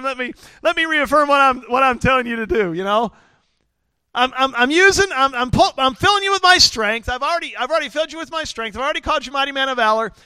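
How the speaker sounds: high, emphatic insistence; exasperated reassurance. Acted. God reaffirming what he told Gideon, exasperated.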